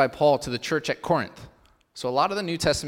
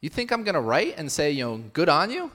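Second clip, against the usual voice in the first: exasperated paraphrase; 4 semitones higher than usual. Acted. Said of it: "Paul's saying".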